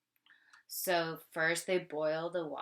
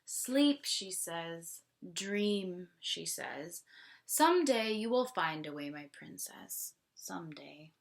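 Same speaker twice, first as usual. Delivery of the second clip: tender hush. Acted. Mother hushing daughter to sleep, tender. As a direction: settle her into dreams.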